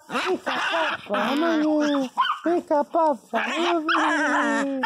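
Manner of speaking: put-on high coaxing baby voice; baby talk. Calling his dog to come, high coaxing baby talk. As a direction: coax the puppy over sweetly.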